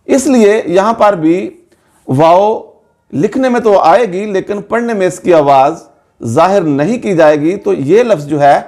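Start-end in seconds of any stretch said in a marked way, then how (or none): none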